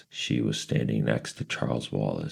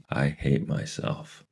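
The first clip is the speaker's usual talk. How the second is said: shaky; 4 semitones higher than usual. Acted. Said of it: "Meg said shakily".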